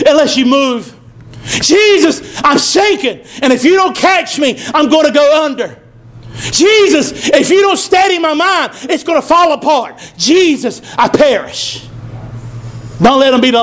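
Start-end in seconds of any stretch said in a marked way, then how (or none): 1.6-11.8 pleading, raised cries to Jesus; preached plea, building then easing; desperate prayer cry. Shown as a demonstration. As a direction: call out as if going under.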